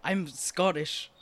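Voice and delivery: put-on a light Scottish accent, grumpy old man just woken. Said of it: "I have to do a Scottish accent".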